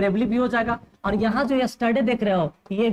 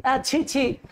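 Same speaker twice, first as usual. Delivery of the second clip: mock disgust; 2 semitones higher, much slower than usual. Shown as a demonstration. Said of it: "आप ऐसे बोलते हो ना".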